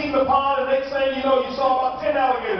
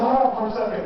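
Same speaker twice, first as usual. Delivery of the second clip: panting between words; winded and gasping; out of breath. Acted. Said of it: "He says".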